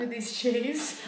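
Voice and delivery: slow, squeaky cartoon rat; drawn out like a cartoon rodent. Voicing the rat character.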